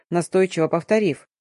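usual speaking voice

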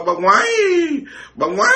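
laughing mimicry that jumps high; giggling imitation of the nun; mocking laugh. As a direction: squeal it through laughter, teasing. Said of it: "cái miệng bà".

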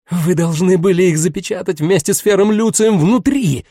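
ringing voice. Acted. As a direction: nearly shout it, voice ringing. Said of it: "Голос Лилит звенел".

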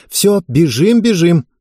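hurried. A narrator's reading. Family rushing out.

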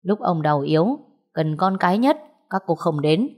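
understated, measured sternness; calmly stern. Acted. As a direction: keep an even voice with a serious edge. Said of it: "thanh âm rất bình thường nhưng lại mang một vẻ nghiêm nghị".

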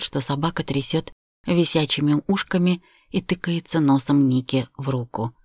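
plain reading voice

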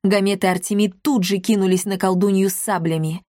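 ordinary delivery

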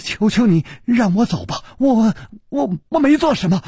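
strained, hoarse and high begging; hoarse pleading. A narrator's reading. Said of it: "他哑着声音说".

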